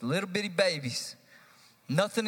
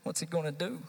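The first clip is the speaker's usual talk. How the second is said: mock nervous congregation. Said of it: "some of you are freaking out".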